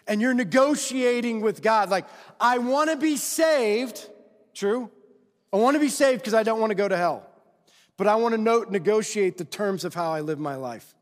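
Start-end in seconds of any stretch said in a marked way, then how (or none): 2.4-10.9 mock bargaining believer. Preacher mimics a believer bargaining with God, mock pleading. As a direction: play a believer haggling with God, half-mocking.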